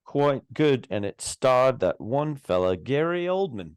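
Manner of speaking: British accent. Shown as a demonstration. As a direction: lilt upward in a British accent. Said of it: "get your best British accent out".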